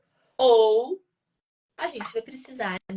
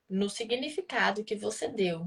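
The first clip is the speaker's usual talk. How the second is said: normal talking voice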